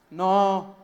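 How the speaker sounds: shouted answer. Acted. Fishermen answering Jesus from the boat, long shout. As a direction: holler it back across the water.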